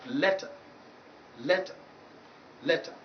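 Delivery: "letter" ending in a weak "tuh", no r; final schwa example. Shown as a demonstration. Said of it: "These are some of the few examples".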